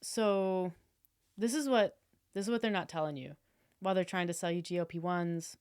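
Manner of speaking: confident influencer sales talk; guru pitch voice. Shown as a demonstration. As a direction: sell it like a diet guru. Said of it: "If I was like".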